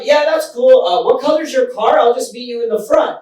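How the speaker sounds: high, easygoing retold reply; casual agreeing. Man offering to meet her out front, casual and high-pitched. Playing it cool with the woman.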